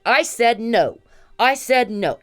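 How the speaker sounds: re-enacted high, loud refusal; retold scream. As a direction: scream it as her, shutting him down. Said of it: "She's screaming at him".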